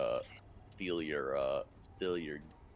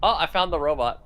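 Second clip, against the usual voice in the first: loud, higher excited shout; 9 semitones higher, 14 dB louder than usual. Real, not acted. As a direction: blurt out the discovery. Excited discovery.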